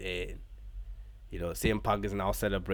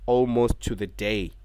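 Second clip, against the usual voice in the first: hyped announcer; 2 semitones higher, 6 dB louder than usual. Acted. Vlogger recapping the show, mock wrestling announcer build-up. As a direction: build it up like a big arena reveal.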